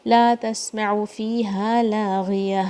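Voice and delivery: slow tajweed recitation, lengthened vowels. Shown as a demonstration. Teacher reciting the verse slowly for students. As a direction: chant it slowly. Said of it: "بھاری sound".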